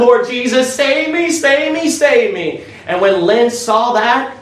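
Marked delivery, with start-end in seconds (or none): 0.0-2.6 higher, lightly imitated tearful cry for help; a touch of sobbing desperation, not real; mock crying plea. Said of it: "was crying and saying".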